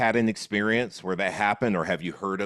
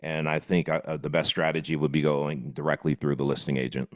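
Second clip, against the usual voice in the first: lower, pushy homebuyer voice; homebuyer role-play; 5 semitones lower than usual. Pretend. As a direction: play the impatient buyer who wants a deal.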